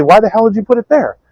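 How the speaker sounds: high, loud mock scolding; hammed-up grandmother yelling at movers; retold yelling. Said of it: "She'd come back and yell at them".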